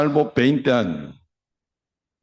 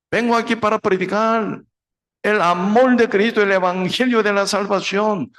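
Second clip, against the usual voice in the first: fervent preaching; 9 semitones higher than usual. Retold or imitated. Missionary preaches to the mob, high urgent pleading. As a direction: preach urgently to a hostile crowd. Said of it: "Él empezó a predicar".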